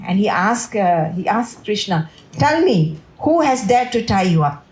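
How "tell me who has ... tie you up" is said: mock-fierce demand, pitched up at the start; lightly acted lion's roar; Balaram roaring. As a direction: demand the culprit like a protective brother. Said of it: "roaring like a lion".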